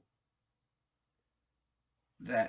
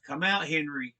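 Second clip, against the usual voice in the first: raised, higher voice ordering someone out; calling out; 4 semitones higher, 5 dB louder than usual. Retold or imitated. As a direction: imitate calling a man out of hiding. Woman ordering Henry out, retold.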